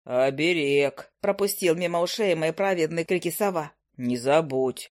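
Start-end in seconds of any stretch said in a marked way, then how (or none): 0.0-1.1 lower, unhurried familiar's voice; a grumpy bird drawling down low; low owl familiar. Acted. 4.0-4.9 lower, unhurried familiar's voice; a grumpy bird drawling down low; low owl familiar. Acted.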